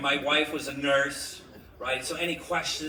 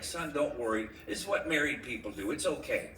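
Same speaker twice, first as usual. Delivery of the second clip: reassuring; 3 semitones lower, 4 dB quieter than usual. Acted. Father comforts his crying son.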